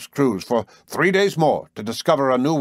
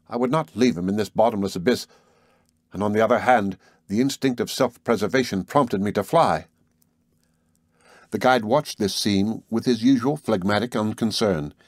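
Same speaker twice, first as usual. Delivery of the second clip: ordinary delivery, nothing marked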